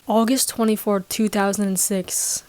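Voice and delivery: lightly voiced villain reveal; Baby Yoda turning mildly sinister on the Earth people. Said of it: "grows a very sinister tone".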